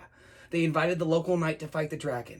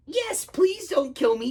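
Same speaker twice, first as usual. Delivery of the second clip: slow, high frightened plea; terrified little dragon; quaking; 9 semitones higher, 4 dB louder, slower than usual. Acted. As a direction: beg for your life in a high voice. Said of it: "quaked the dragon".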